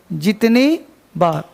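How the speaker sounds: जितनी बार said slowly, word by word for writing down; slow it down so students can write it; slow dictation. Shown as a demonstration. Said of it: "पहले इसको लिख लो". (धीरे-धीरे लिखवाते हुए)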